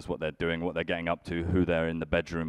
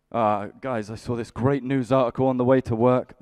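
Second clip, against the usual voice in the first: high, louder, keen-friend voice; eager friend; 5 semitones higher, 7 dB louder than usual. Retold or imitated. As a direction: pitch an idea to a journalist friend. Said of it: "and you're like".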